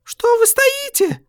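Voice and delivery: desperate, high, stretched shout; anguished scream. A narrator's reading. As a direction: scream it with her voice tearing. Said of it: "с надрывом закричала она".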